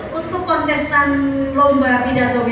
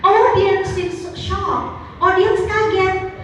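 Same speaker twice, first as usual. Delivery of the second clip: mock shock; 5 semitones higher, slower than usual. Mock shocked audience reaction.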